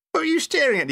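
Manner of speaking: giggling. Retold or imitated. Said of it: "he giggled".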